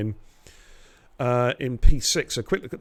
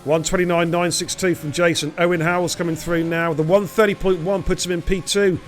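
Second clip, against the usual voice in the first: rising hype, higher and louder; excited commentary; 5 semitones higher, 5 dB louder than usual. Real, not acted. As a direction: call the pole lap as it lands. Live qualifying play-by-play call.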